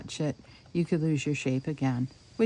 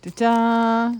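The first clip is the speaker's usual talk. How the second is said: loud proud reveal; 5 semitones higher, 9 dB louder than usual. Real, not acted. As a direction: announce it like a magic trick. Reveals the finished shape.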